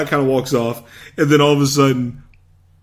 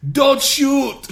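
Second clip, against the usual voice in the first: mock shout; 12 semitones higher, 4 dB louder than usual. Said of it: "he goes".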